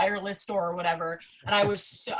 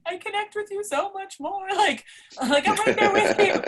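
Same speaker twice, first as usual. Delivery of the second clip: high, gushing mock squeal to her idol; gushing fan voice; 12 semitones higher, 5 dB louder than usual. Fan gushing to pregnant wrestler, high gushing squeal. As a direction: pitch it way up like a starstruck fan. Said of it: "I'm like".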